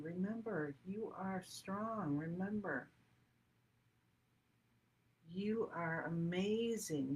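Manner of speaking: slow, tender affirmations; soothing. Acted. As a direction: reassure them, gently and slowly. Voices the ancestral messages.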